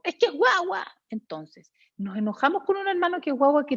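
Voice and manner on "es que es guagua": put-on child voice. Voicing the child's answer.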